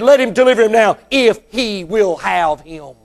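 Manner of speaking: preacher mimicking a scoffer; sarcastic. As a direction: repeat the taunt with measured sarcasm. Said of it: "listen to this sarcastic attitude".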